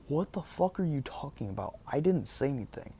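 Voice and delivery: indignant disbelief. Retold or imitated. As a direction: imitate a baffled, defensive comeback. Acted baffled reply in quarrel.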